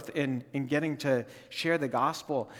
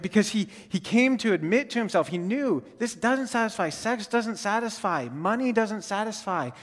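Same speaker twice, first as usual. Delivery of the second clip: rising preaching fervor; 5 semitones higher than usual. Real, not acted. Preacher builds the doesn't-satisfy list.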